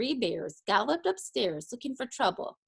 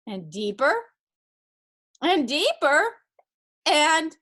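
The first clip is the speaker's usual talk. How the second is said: slow build, climbing higher and louder; rising suspense; 5 semitones higher, 6 dB louder, slower than usual. A narrator's reading. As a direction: build from usual voice to a loud, high hold. Narrator builds up the sinking.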